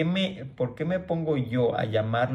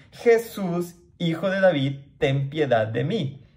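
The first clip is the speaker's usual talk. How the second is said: pleading cry; 4 semitones higher than usual. Acted. Blind man crying to Jesus for mercy, high pleading call. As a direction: call out begging, pitched up.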